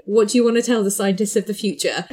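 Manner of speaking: interviewer impression. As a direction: put on an interviewer voice. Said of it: "That's such a good impression".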